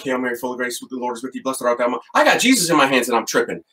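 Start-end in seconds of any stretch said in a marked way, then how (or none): 0.0-2.0 muttering the Hail Mary under his breath, much softer; hushed frantic prayer. Retold or imitated. Priest holding the monstrance, praying quietly while freaking out. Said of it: "And I'm like".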